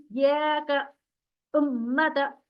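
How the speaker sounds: "या का उम्मत" with jolted first vowels and held doubled consonants; read with jolt. Shown as a demonstration. Teacher models correct reading for students, emphatic jolted hamza. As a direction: punch into "या का", pause, then "उम्मत". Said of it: "झटका देके पढ़िए".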